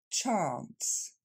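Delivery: "Chance" with English "ch" and long "ah" as in car; English model pronunciation. Shown as a demonstration. Teacher shows French learners, English "Chance" with long "ah". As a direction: model "Chance" carefully, pitch falling. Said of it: "C'est le même A que dans they are".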